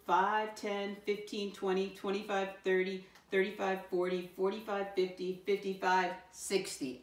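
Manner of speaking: steady rhythmic count-along; counting aloud. Shown as a demonstration. Teacher counts by fives with pupils, steady counting aloud. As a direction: count evenly so learners can join in.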